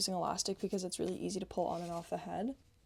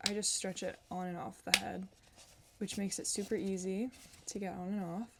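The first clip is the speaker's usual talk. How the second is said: usual speaking voice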